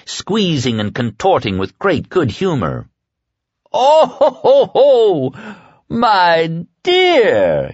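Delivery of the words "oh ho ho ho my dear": very high, loud mocking laughter; laughing cry. A narrator's reading. Dark man laughing at her failed attack, booming. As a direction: roar with delighted laughter. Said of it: "he cried".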